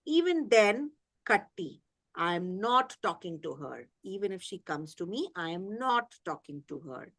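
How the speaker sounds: lightly voiced, close to crying; tearful voice. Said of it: "she says in a tearful voice".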